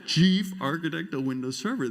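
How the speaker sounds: loud, high, booming headline; grand proclamation. Acted. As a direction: announce the title big, as the one that counts. Grand headline on tombstone front.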